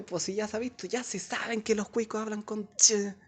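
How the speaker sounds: a hint of a bored know-it-all; lightly imitated student whine; mock bored student.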